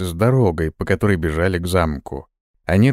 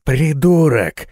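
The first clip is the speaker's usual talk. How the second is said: hissed insult; 5 semitones higher, much slower than usual. Acted. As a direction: spit the word out slowly through the teeth. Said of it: "зашипел Моррис". (медленно и громко прошипеть)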